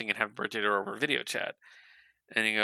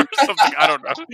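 louder, laughing through the words; 12 semitones higher, 8 dB louder, much faster than usual. Real, not acted. Admitting a hard time, laughing it away. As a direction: shrug it off with a laugh.

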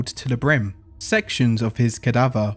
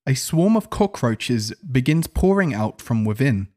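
ordinary delivery

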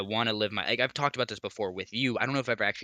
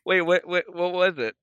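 surprised; 6 semitones higher, 6 dB louder than usual. Real, not acted. Sudden curious interruption.

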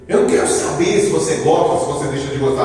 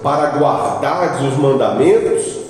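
slow, deliberate reading of the verse; scripture reading; slower than usual. Acted. Preacher reading the law of Israel to the congregation, slow and solemn. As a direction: read the verse slowly and solemnly.

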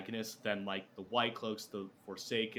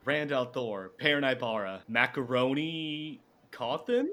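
Scooby-Doo villain; 2 semitones higher, 7 dB louder than usual. Pretend. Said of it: "come across as Scooby-Doo".

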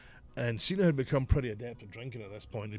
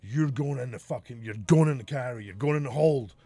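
angry threat; 7 dB louder than usual. Retold or imitated.

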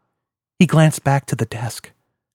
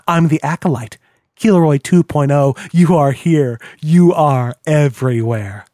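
mocking villain. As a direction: needle the old master, half worship half sneer. Villain taunts his old mentor.

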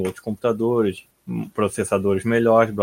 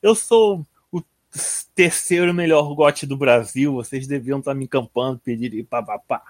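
imitating boastful player. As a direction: act out a player bragging about his rank. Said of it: "Aí ele começou a falar assim".

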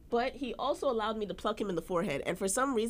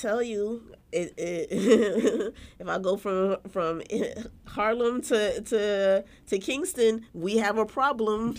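laughing while talking; 3 semitones higher, 4 dB louder, slower than usual. Real, not acted. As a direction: laugh through the words.

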